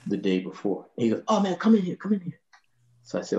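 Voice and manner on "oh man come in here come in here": high raspy imitation of a jazz musician calling him in; jazz trumpeter voice. The trumpeter beckoning the young bassist in, high raspy voice.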